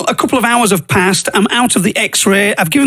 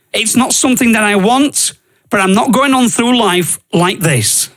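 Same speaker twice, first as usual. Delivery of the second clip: desperate pleading; 3 semitones higher than usual. Retold or imitated. Pleading with God in despair.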